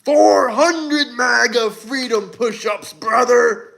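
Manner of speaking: slow, sing-song wrestler promo, lightly voiced; a hint of a hyped wrestler, drawn out; Hulk Hogan impression. Streamer pitching push-ups, light Hulk Hogan wrestler voice. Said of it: "That was my Hulk Hogan impression".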